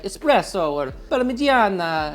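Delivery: lightly hammed-up Italian accent; mock Italian accent. Cook mocking Americans who think it's proper, thick Italian accent. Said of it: "with a thick Italian accent".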